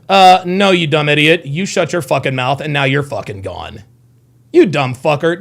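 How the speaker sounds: sudden angry snap at chat; angry streamer telling off a troll in chat; heated at a troll. Real, not acted. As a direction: tell off the troll with real heat. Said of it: "Don't let these idiots get you heated".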